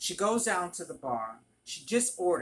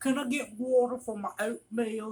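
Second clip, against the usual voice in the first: put-on thick Southern accent, pitched up; 5 semitones higher than usual. Retelling a regular customer asking at the register, in a thick Southern accent. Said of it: "He had a thick Southern accent".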